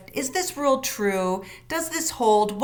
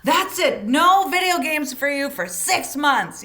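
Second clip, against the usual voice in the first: higher and a bit louder, fed-up; mock angry threat; 4 semitones higher, 3 dB louder than usual. Parent grounding kids from video games, mock angry. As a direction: bark out the punishment in mock anger. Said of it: "We say pretty crazy things".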